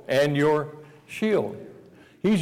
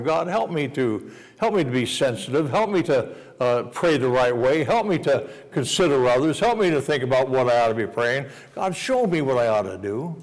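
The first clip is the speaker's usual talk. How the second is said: prayer; 3 semitones lower than usual. Acted. A believer at prayer time asks God for help, gently. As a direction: plead gently for guidance.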